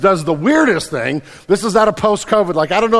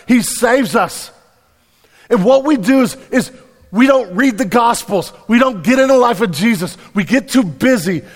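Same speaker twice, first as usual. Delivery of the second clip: louder, higher, driving proclamation; fervent preaching; 5 semitones higher, 3 dB louder than usual. Real, not acted. Pastor building to a fervent climax before the congregation. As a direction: preach it with full conviction.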